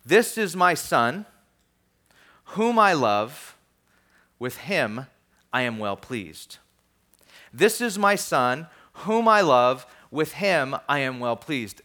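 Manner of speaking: slow, weighty voice from heaven; solemn proclamation. Acted. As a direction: let each phrase land slowly, with pauses.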